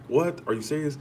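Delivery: sharp high "What?", then disbelief; imitating mama's surprise. Mom sees screenshot of predictions, imitated high surprised gasp. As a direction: retell mom's shocked reaction.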